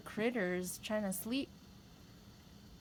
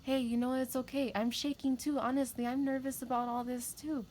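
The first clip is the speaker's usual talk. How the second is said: reassuring; 4 semitones higher than usual. Retold or imitated. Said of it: "And I'm like".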